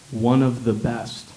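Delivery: a slow, lightly mocking nurse's phrase; mock nurse quote. The nurse promises the best doctor, slow mock quote. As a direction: drawl "one of the best" slowly, as if quoting her.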